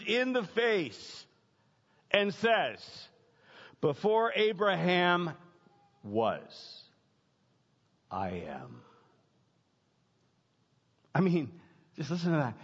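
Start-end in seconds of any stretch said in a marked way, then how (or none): 3.8-8.8 slow down and let "I am." sink to a hush; dramatic hushed quote. Acted. Preacher quoting Jesus's claim.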